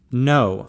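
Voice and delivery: a mildly emphatic refusal. A narrator's reading. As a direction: say NO with a touch of firmness. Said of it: "Lonnie said emphatically".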